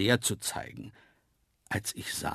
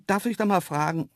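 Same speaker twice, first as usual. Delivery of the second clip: raised, sceptical query; 8 semitones higher, 3 dB louder than usual. A narrator's reading. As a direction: ask with open doubt. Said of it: "fragte ich skeptisch". (skeptisch fragen)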